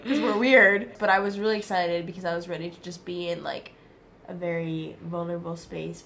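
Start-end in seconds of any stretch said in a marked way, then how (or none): 0.0-1.0 laughing. Real, not acted. Student jokes about American girls.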